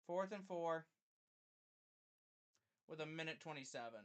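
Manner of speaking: quiet, measured live game commentary; subdued play-by-play. Acted. Streamer narrating the last-chance play to viewers, subdued play-by-play. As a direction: call the play softly, tension held in.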